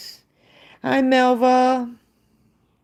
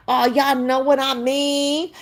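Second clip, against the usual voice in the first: mock ghetto talk; 4 semitones higher than usual. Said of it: "talk like that".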